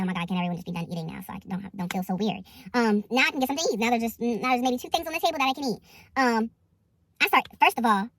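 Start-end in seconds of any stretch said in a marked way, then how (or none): 0.0-2.4 lower, softer thinking aloud; fed-up thought in her own head, softer and lower; inner thought. Retold or imitated. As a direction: mutter it like a private thought. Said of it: "just in my head".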